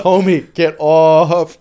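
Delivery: mock yell. Retold yelling at a trucker.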